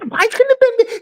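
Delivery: very high, worked-up imitation; mock fit. Retelling a friend fit to be tied, hammed-up. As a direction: mimic him beside himself, pitch way up. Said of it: "He's fit to be tied".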